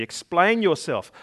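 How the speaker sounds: stern. Acted. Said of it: "said the caterpillar sternly".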